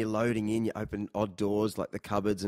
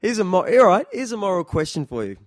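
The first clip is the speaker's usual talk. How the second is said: mock grand announcement; 5 semitones higher, 8 dB louder than usual. Real, not acted. Announcing a big moral question.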